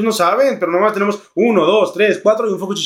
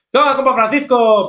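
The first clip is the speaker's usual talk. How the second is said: ceceo Spanish; 7 semitones higher, 4 dB louder than usual. Retold or imitated. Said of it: "porque habla así, cecea".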